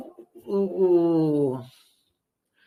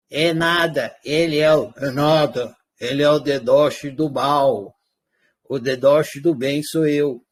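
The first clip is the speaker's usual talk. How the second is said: disguised deep voice; 6 semitones lower than usual. Pretend. Purple puppet argues back.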